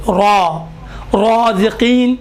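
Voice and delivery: را، رازقین with thick rounded "raw"; full-mouthed first syllable of رازقین; thick r and long round vowel in رازقین; heavy raa. Shown as a demonstration. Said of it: "یہ موٹے حروف میں سے ہے".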